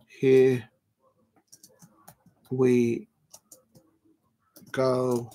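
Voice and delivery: one word at a time, long gaps; word-by-word typing. Real, not acted. Streamer typing the stream title, drawn-out and absent-minded. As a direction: say each word slowly as you type it.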